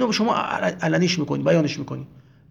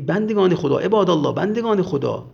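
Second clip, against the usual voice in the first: mildly raised call to a crowd; raised-voice appeal; 4 dB louder than usual. Retold or imitated. Zuhayr addressing the servants of God, mildly raised voice. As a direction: call out the quoted address, a little louder. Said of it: "با صدای بلند گفت که".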